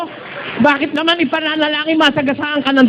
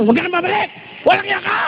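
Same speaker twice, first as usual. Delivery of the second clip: mock bitter wife; 7 semitones higher, 8 dB quieter, much faster than usual. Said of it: "paalaman ng asawa".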